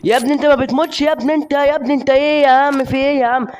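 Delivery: high-pitched exasperated protest. Real, not acted. Gamer to an enemy who won't die, exasperated. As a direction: plead in frustration with a foe.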